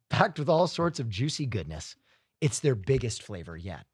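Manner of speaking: ad read. Real, not acted. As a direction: sell the product in a read-out pitch. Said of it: "do an ad read".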